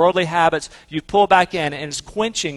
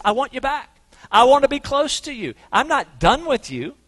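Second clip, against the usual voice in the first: tender plea; 7 semitones higher than usual. Acted. Pleading voice of repentance.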